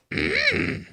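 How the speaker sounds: high squeaky throat-clear as Elmo; a high little Elmo throat-clear; Elmo agreeing. Acted. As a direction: clear your throat like a tiny red puppet agreeing. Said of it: "That's my impression of Elmo agreeing with you".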